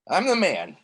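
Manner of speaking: whispered, barely voiced claim; shy whisper of the line; timid whisper. Intern forced to brag on phone, whispering. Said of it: "tell him you're the man".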